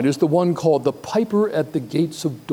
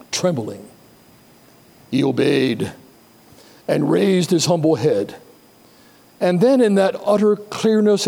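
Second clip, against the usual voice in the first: measured, emphatic literary reading with weighty pauses; dramatic story reading; 2 semitones higher than usual. Acted. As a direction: read it aloud with awe and reverence. Reads the book passage aloud.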